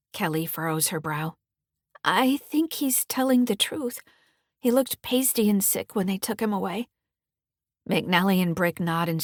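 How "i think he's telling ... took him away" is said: put-on a girl gently disagreeing; teen daughter. Kelly voiced by narrator.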